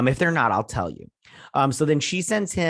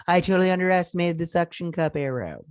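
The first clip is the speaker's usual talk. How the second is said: higher, imitated amazement; retold amazed admission; 5 semitones higher than usual. She admits the arrow worked, mock amazement. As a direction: play her impressed, pitched up and sustained.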